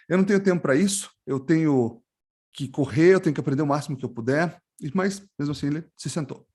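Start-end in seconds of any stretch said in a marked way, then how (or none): 0.1-4.6 mildly impatient, hurried inner voice; quick, restless thinking aloud; anxious young man. Acted. Anxious lad thinking he has no time for tea, mildly impatient. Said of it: "O rapaz ansioso pensou".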